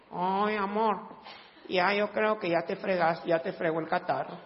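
soft, resigned wifely voice; mock pessimistic wife. Wife telling husband the cold has got him, mock gloom. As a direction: sigh doom at your husband. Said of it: "su esposa le dijo".

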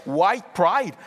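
loud, high parody of a slogan; mock proud shout. Preacher testing the English counterpart slogan, mock proud shout. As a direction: call it out like a proclamation.

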